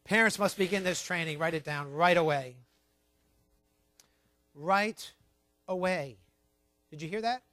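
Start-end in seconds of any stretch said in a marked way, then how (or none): 4.5-6.2 emphatic. Real, not acted. Repeats it slowly for emphasis.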